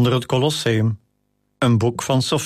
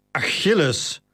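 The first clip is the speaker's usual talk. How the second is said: calming; 3 semitones higher, slower than usual. Acted. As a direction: ease him down gently with his name. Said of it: "in een poging hem te kalmeren".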